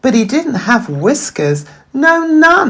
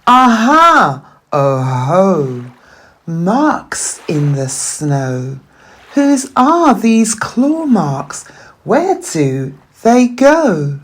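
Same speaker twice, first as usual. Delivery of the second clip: a little explorer spotting clues; excited child. Acted. Gruffalo's child alone in the wood, excited discovery.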